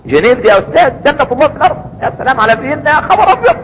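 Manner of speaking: high, gushing impression of an awed tourist; mock tourist gushing. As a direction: parody someone swooning over Geneva. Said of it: "يقول لك".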